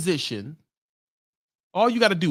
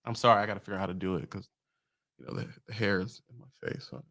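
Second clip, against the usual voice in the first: lower, rushed, mocking office-boss voice; a smug dispatcher talking down to a driver; imitating King's dispatcher; 5 semitones lower than usual. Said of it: "I'm King's D M".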